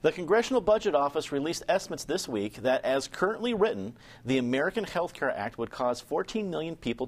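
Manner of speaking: scripted news introduction, measured delivery; news read. Acted. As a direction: read it out like a radio news brief. Host reads a news briefing.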